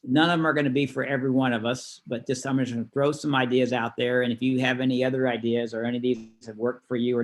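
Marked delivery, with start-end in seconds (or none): none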